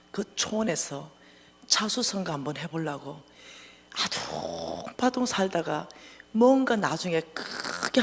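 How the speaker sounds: halting confession, sinking to a breathy near-whisper; tearful apology. Retold or imitated. Friend in tears apologizing for being stingy, subdued remorse. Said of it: "애가 펑펑 우는 거예요".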